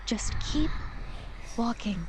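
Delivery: breathy whispered urging. Acted. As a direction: lean in and whisper it. Guiding soul past forest voices.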